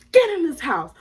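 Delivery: high-pitched imitation of mom ordering kids in; mock motherly yell; mama yelling. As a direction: order them inside like an angry mom.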